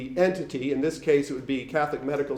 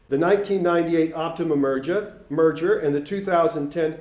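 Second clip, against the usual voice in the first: Boston accent. Real, not acted. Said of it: "I kinda got into my Boston accent there".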